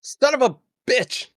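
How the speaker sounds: high pained outburst; pained curse. Acted. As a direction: curse at the sudden bullet hit. Character shot in shoulder.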